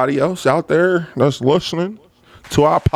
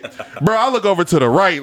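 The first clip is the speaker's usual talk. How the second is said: ordinary delivery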